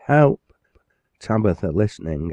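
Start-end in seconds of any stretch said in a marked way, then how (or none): 0.1-0.4 high, loud desperate call; drowning boy shouting for help; shouted cry for help. Acted. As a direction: yell for help from the water. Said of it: "He raised his voice for".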